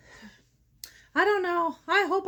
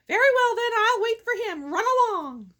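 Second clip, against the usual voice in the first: lightly voiced troll, higher and louder at first; troll's dismissal; 4 semitones higher, 4 dB louder than usual. Troll letting the little goat cross, mild dismissal. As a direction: grant it loudly as the troll, then settle.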